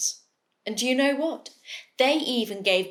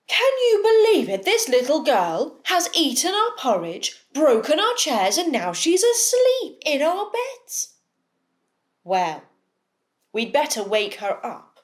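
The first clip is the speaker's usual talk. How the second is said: higher, louder, fast indignant bear; outraged bears; 5 semitones higher, 3 dB louder than usual. Acted. Bears discover Goldilocks asleep, indignant. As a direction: sputter with disbelief.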